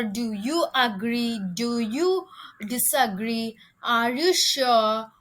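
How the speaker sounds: slow, deliberate confirming questions; teacher modelling confirmation questions; slow examples. Shown as a demonstration. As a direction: read each question slowly for learners. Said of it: "to confirm".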